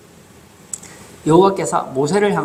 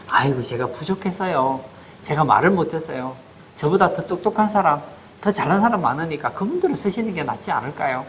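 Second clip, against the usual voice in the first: mildly self-deprecating, imitating a modest refusal; a touch of mock humility; humble excuse. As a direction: lightly act out someone politely begging off. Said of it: "얼마나 겸손해 보입니까?".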